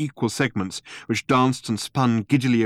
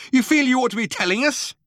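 high-pitched squawk of outrage; squawking fury; 14 semitones higher, 3 dB louder, faster than usual. A narrator's reading. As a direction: squawk it like a furious bird. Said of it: "squawked Ford in avian fury".

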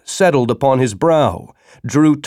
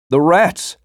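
higher, rising in alarm; panicked cry; 5 semitones higher than usual. Acted. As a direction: cry out in sudden fear. Delirious man sees rats.

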